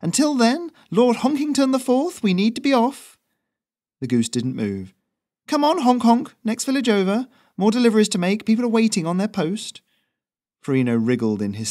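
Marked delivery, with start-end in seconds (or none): 0.0-3.2 higher, louder, teasingly formal courier; mock grand address. A narrator's reading. Courier teasing his goose with a grand title, louder and higher. 5.5-9.8 higher, louder, teasingly formal courier; mock grand address. A narrator's reading. Courier teasing his goose with a grand title, louder and higher.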